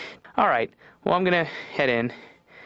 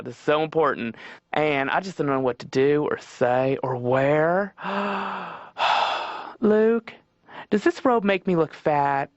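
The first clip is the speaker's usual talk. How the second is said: fretful Southern Jesus; 2 semitones higher than usual. Retold or imitated. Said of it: "an effeminate Southern man".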